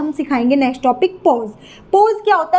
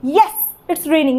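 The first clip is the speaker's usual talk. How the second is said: happy; much slower than usual. Shown as a demonstration. Teacher demonstrates being happy it is raining, pleased. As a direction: celebrate the rain briefly. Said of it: "आप खुश हो कि बारिश हो रही है".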